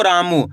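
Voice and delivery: "रामू" with a long, drawn-out रा; "रामू" said as a model of long vowels; stretched vowel. Shown as a demonstration. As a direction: hold the vowels in "रामू" for the learner. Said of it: "रा का उच्चारण खींच को रहा".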